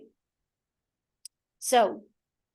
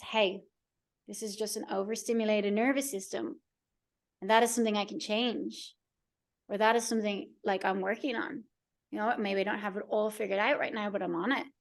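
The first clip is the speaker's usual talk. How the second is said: soothing self-talk; 3 dB quieter than usual. Shown as a demonstration. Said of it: "taking a deep breath".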